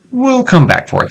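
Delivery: very high, comic squeak; squeaky high voice. Pretend. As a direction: pitch way up like a cartoon.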